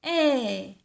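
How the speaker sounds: "E" held as a long open è; isolated E sound. Shown as a demonstration. Teacher answering which sound it is, isolated E sound. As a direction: sound out "E" alone, drawn out. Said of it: "C'est le son".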